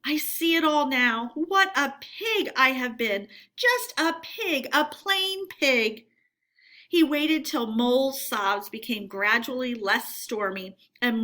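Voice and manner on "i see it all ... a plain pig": muttered gloomily. A narrator's reading. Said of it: "he muttered gloomily".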